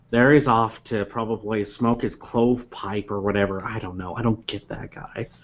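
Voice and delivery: a hint of a grumbling, weary coworker; grumpy Beth. GM voicing Beth grumbling about her coworker, lightly sighed. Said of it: "And so Beth goes".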